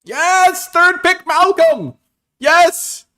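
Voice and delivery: huge high yells of joy; ecstatic cheer. Real, not acted. Drafter thrilled to pull Malcolm, shouting for joy. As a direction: cheer like you just won the lottery.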